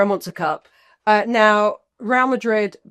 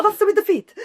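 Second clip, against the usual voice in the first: laughing mock dance caller; giggling through a pretend instruction; 12 semitones higher than usual.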